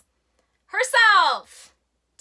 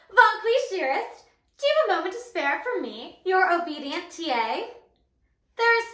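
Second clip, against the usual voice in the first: subservient. Acted. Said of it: "Be more subservient".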